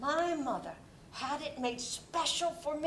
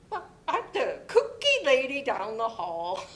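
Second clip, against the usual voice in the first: laughing; 5 dB louder than usual. Acted. Laughs while joking.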